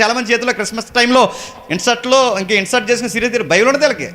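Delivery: high-pitched pulpit rebuke; forceful preaching. Real, not acted. Preacher berates believers who cry over cake and songs, forceful preaching.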